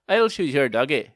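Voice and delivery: lightly put-on Northern Irish accent; a short threat in Northern Irish. Shown as a demonstration. Comic quoting his uncle's ex, Northern Irish accent. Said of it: "accent that I can do in a Northern Irish accent".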